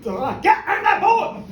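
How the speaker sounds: high, loud, drawn-out command; exasperated yell. Acted. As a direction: holler it at someone not listening. Acted quarrel of father and son.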